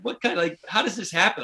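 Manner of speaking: can't believe what just happened; incredulous. Retold or imitated. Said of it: "I'm like".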